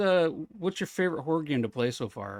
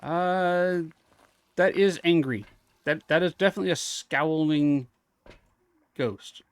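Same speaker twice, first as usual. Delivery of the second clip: loud, higher exclaim at the ghost; startled loud; 4 semitones higher, 6 dB louder than usual. Real, not acted. Reacting to the angry ghost, loud and startled. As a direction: blurt it out loud.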